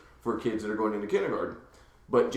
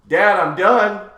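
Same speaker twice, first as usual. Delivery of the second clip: put-on loud, drawn-out kid's call for dad; imitated child calling out; 7 semitones higher, 10 dB louder, much slower than usual. Kid calls Dad from the bathroom, calling out. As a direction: call out like a kid, slow and higher.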